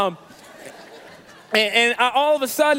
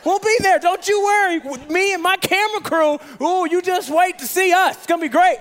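hammed-up booming assurance; overeager bluffing; 9 semitones higher, 6 dB louder than usual. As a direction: bluff big, way up high and loud. Bluffing to the team on the phone.

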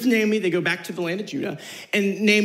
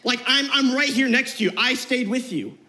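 casual Ruth; 5 semitones higher than usual. Retold or imitated. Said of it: "Ruth had every right to be like".

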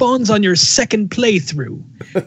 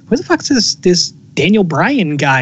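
mock annoyed; 2 semitones higher than usual. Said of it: "I'm like".

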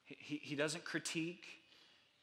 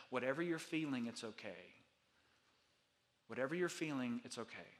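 reassuring. Real, not acted. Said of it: "reassuring the grieving".

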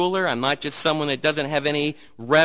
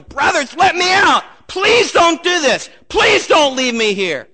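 high, loud, drawn-out pleading; desperate yelling; 11 semitones higher, 9 dB louder than usual. Acted. Seventeen-year-old begs his brothers for help, desperate shouting. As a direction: yell for rescue like an abandoned teenager. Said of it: "seventeen-year-old kid yelling".

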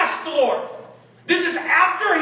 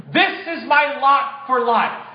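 fatalist resignation; slower than usual. Retold or imitated. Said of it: "a fatalist mindset that says".

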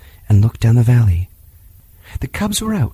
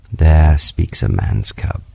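proud panther; 8 semitones lower, slower than usual. A narrator's reading. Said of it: "said Bagheera proudly".

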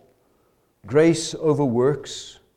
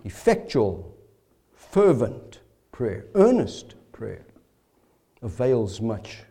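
hushed repeat; 8 semitones lower, 7 dB quieter, slower than usual. Shown as a demonstration. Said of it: "slow hushed repeat of the verse".

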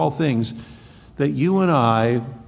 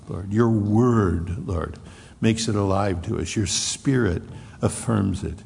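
prayer. Acted. Pastor leading the congregation in closing prayer, earnest. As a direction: pray aloud for the whole room.

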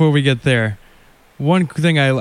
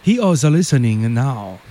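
mock Asian accent; 2 semitones higher than usual. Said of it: "Why we keep doing the Asian voice?".

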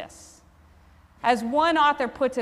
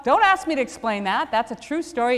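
ordinary delivery

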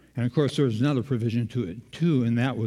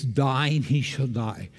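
slow literal rendering; much slower than usual. Shown as a demonstration. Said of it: "But technically it's".

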